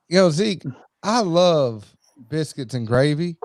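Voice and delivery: mock Southern accent for the podcast; fake Southern. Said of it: "Kyle wants us to say something Southern".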